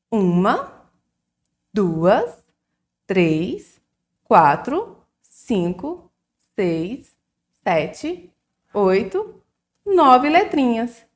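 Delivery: each number called out separately with lift; counting aloud. Shown as a demonstration. Teacher counting the nine letters with the children. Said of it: "vamos contar comigo?".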